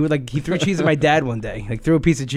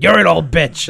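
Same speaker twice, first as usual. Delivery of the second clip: gravelly mock yell; 2 semitones higher, 7 dB louder than usual. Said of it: "gravelly voices yelling at each other".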